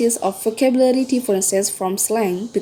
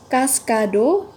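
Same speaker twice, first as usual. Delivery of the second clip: syllable by syllable; 3 semitones higher, slower than usual. Shown as a demonstration. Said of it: "It has three syllable".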